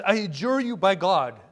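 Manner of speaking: loud, forceful mock adjuration; crying out. Preacher voicing the demon appealing to Jesus, crying out. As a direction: call it out like a sworn demand. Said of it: "he crying out with a loud voice".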